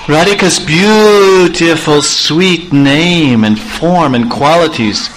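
high, pleading lover's voice, choked with emotion; Krishna pleads with Lalita at the gate, choked up. Acted. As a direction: beg Lalita through a tight throat. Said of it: "Krishna became all choked up".

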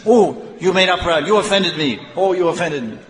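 high, aggrieved mimicry; mock offended. Fault-finders complaining about others, mock offended. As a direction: whine the accusation in mock offense.

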